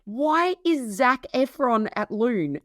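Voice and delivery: high, fast, laughing story; can barely get the words out for laughing; laughing through it. Real, not acted. Chef tells host about her starstruck staff, laughing. Retelling star visit, laughing.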